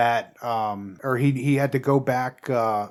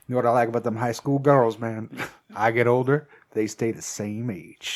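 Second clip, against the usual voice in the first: Matthew McConaughey; 3 semitones lower, 4 dB quieter than usual. Acted. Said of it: "he goes".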